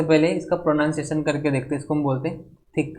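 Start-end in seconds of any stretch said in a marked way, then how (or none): 2.8-3.0 थिक opening on Hindi थ; TH at the start. Shown as a demonstration. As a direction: begin थिक with an aspirated थ. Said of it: "beginning sound थ का आ रहा है".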